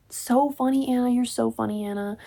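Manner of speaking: dry mock praise; sarcastic. Real, not acted. Reader mocking Anna's joke, dry sarcasm. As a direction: roll your eyes at the joke.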